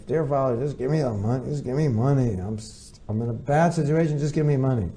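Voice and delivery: pushy, insistent begging tone; demanding read. Shown as a demonstration. Reading a son's money email aloud, curt and demanding. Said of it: "So if you read it like that, and you get agitated".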